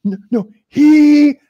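high, loud, slow ape insisting. Retold or imitated. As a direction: dumb ape correcting him.

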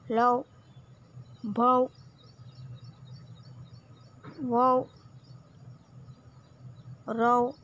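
"लौ", "भौ", "वौ", "रौ" each said clearly with a pause after; syllable reading. Shown as a demonstration. Teacher reads syllables aloud to children, clear and spaced. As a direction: model each syllable slowly, one by one. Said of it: "तो उसको हम पढ़ेंगे".

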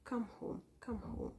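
breathy whisper, almost no voice; whispered plea. Real, not acted. Pleading with the lost viewer to come home, whispered. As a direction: whisper it like a gentle call home.

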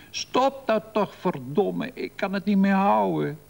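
high, strained panicky plea; pinched with fear. A narrator's reading. Frightened man at the wheel begging her to stop, pinched with fear. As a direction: cry out in panic, voice squeezed high. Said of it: "geknepen van angst".

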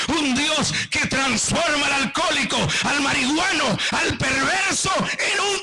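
rising litany of praise; fervent preaching. Real, not acted.

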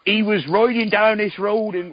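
failed attempt at a Welsh accent, slow; a half-hearted Welsh accent. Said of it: "I can't do a Welsh accent".

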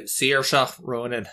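bad Irish accent on the name; hammy Irish accent, drawn out; awful Irish accent. Shown as a demonstration. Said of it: "the awful Irish accent when I say it like that".

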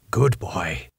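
lightly voiced gentle professor; calm firm old doctor; Van Helsing. Van Helsing soothes Arthur.

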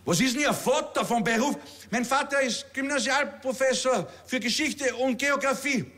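bellender Ausbilder, der Rekruten anschnauzt; brüllender Major. Acted. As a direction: herrischer Kasernenton mit Wiener Färbung. Kabarettist spielt brüllenden Major. (Major schnauzt den Rekruten an)

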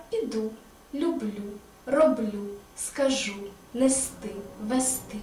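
піду, люблю, роблю stressed on the last syllable; the right way, підУ, люблЮ, роблЮ; final stress in піду, скажу, нести, вести; correct stress. Shown as a demonstration. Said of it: "Не піду ... а піду".

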